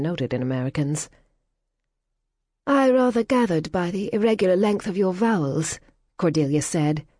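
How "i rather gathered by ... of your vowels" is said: higher, crisp, superior aristocratic retort; haughty English lady. Acted. Cordelia mocking the American's vowels, haughty. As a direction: look down your nose at her.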